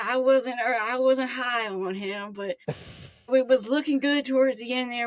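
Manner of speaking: lightly voiced wistful call-in fan; Herbie. Caller telling host about hard years, lightly put-on character voice. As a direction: lament the past seasons to the host. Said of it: "I'm gonna be a new character now".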